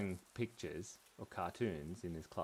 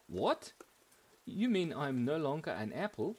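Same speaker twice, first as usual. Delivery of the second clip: higher, louder mock astonishment; surprised; 5 semitones higher, 5 dB louder than usual. Apple told he is no longer one, mock surprise. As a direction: play the shocked apple, pitched up. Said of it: "he was really surprised at this".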